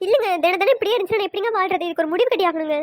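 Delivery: mildly weepy, acted pleading; tearful acting. Wife begging husband to settle the daily quarrel, acted tearful. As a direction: plead with a touch of put-on crying. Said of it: "நீ அழுதா என் மனசு".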